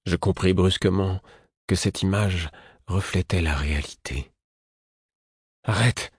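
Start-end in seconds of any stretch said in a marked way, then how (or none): 5.6-6.1 sharp raised cry of stop. A narrator's reading. Fitz cries out to his friend, a raised shout. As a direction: call out to stop him. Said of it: "m'écriai-je".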